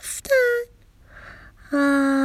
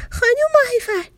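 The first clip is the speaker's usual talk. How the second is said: higher, more urgent second call to the teacher; 10 semitones higher than usual. Acted. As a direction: call her name again, rising and pleading. Calling the teacher again.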